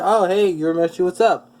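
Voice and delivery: lightly acted eager greeting; excited greeting. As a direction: greet a friend with a touch of excitement. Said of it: "And he's excited".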